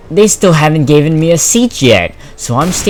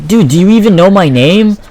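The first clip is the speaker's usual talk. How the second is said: high, loud indignant challenge; retold exasperation; 7 semitones higher, 7 dB louder than usual. Student challenging teacher who marked them tardy, exasperated. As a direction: throw the question back in disbelief.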